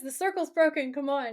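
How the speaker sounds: high-pitched acted urgency; urgent mock call. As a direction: hurry someone away in a retold alarm.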